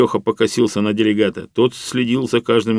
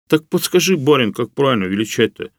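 pleading; 5 semitones higher than usual. Acted. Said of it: "взмолился мужик".

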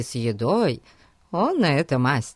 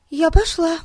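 put-on eager girl; 13 semitones higher, 4 dB louder than usual. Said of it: "вскочила Хилари".

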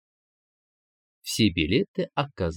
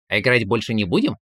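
innocent; faster than usual. Acted. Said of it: "невинно поинтересовался он".

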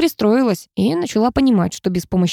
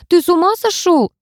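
high, sharp shriek of outrage; indignant shriek; squeal; 10 semitones higher, 3 dB louder than usual. A narrator's reading. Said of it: "взвизгнула я".

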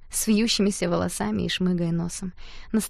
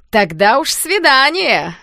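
slow, loud higher mock; laughing tease; 6 semitones higher, 9 dB louder, slower than usual. A narrator's reading. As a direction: toss it out laughing. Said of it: "рассмеялся тот самый знакомый".

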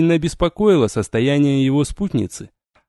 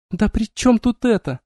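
bitter drawl; 9 semitones higher than usual. A narrator's reading. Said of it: "с горечью протянула девушка".

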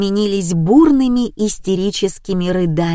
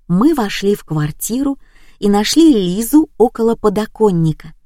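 ordinary delivery

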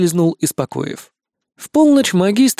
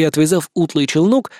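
usual speaking voice

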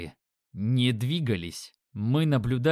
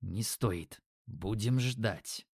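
curt and quiet; 3 semitones lower, 7 dB quieter, much slower than usual. Acted. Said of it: "коротко выдал Юки".

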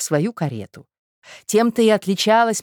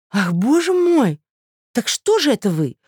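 cried out; 10 semitones higher, 3 dB louder than usual. A narrator's reading. Hostess urges the suitor to hurry, crying out high and loud. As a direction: burst out in urgent dismay. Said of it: "вскричала Марья Александровна".

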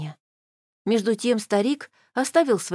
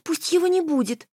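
squeaky timid inner voice, higher; трусливый писк; 8 semitones higher than usual. A narrator's reading. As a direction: squeak it out like a coward. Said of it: "запищал трусливый голосок внутри". (тонкий трусливый писк)

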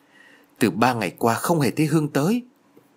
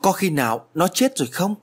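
worried; 6 semitones higher than usual. A narrator's reading. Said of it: "càng thêm lo sợ".

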